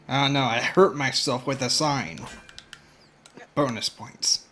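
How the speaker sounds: ordinary talk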